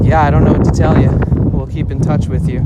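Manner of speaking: fast, loud, offhand brush-off; dismissive cop. Retold or imitated. Police brushing off the missing laptop, dismissive. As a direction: rattle it off like a bored clerk. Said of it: "And they were like".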